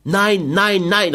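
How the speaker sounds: loud, high repeated cry of refusal; cried out. Acted. Carmen defiantly refuses José, crying out loud and high. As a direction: hurl each no back at him. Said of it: "rief sie".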